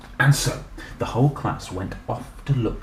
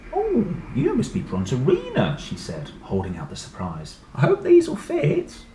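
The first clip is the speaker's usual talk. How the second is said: high, lightly voiced mum; kind mother; 6 semitones higher than usual. Mother offers the shoes to the dinosaur, high. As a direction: offer the gift sweetly.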